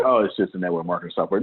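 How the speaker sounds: quick, offhand brush-off; downplaying. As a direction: make it sound like nothing. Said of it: "I downplay everything".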